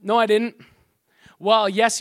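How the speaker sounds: loud, acted back-and-forth denial; emphatic mock dispute. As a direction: push back firmly, raising the volume. Acted accusation and denial exchange.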